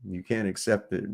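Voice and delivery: hammed-up lecture to a science denier; mock science rant. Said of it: "I can't even say that with a straight face".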